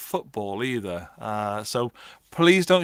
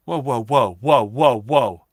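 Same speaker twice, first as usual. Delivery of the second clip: excited whoa; 6 dB louder, slower than usual. Real, not acted. Reacting to a chat message.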